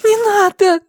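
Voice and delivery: put-on high loud little boy plea; frightened child. A narrator's reading. The boy waits for the blow, pleading. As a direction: cry out bracing for a blow. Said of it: "ожидая удара".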